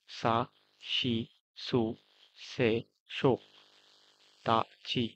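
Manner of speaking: each syllable said slowly and distinctly, pausing between them; reciting kana rows. Shown as a demonstration. Teacher models hiragana pronunciation for students, slow and deliberate. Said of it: "এটা উচ্চারণ বললাম".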